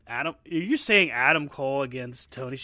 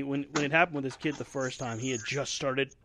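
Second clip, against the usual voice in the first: talking through hiccups; 4 dB quieter than usual. Real, not acted. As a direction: speak between hiccups. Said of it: "excuse me, I have the hiccups".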